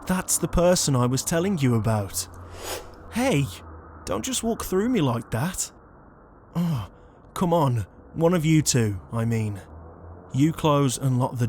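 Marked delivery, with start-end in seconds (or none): 3.1-7.9 indignant outcry. Acted. Ghost walked through by the human.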